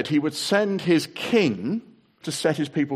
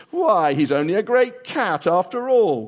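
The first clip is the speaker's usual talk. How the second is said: louder laughing jeer; mocking cry; 6 semitones higher, 6 dB louder than usual. A narrator's reading. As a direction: laugh at the beaten lion. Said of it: "cried one".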